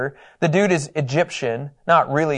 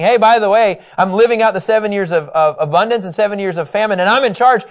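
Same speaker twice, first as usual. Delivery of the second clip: high, loud proud announcement; mock triumphant boast; excited Joseph; 5 semitones higher, 4 dB louder than usual. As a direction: crow about being in charge. Joseph voiced announcing his rise.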